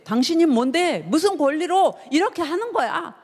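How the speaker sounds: high-pitched indignant challenge; imitated confrontational demand. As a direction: confront him like an offended official demanding credentials. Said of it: "막 따져 묻는 거예요".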